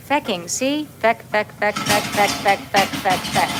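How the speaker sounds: feck said over and over with an open Irish a; repeated Irish feck. Shown as a demonstration. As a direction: chant feck like an Irish swear. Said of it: "Say it. Come on, say it".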